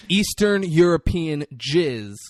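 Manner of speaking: loud, high, incredulous imitation of a boss; sarcastic boss. Boss questioning henchman about jacket stain, loud mock disbelief. Acting out boss's sarcastic tirade.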